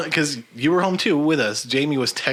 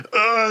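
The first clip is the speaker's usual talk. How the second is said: higher mock puking groan; imitated retching groan; 8 semitones higher than usual. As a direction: groan as if throwing up. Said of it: "he's just puking".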